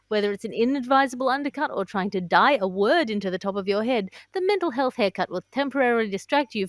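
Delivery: deadpan sponsor read over music; mock ad read. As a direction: sell it like a cheesy podcast ad. Reads a mock podcast ad.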